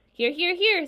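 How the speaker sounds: high, loud goose honk. Acted. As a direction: honk the answer like a silly goose. Goose answers the roll.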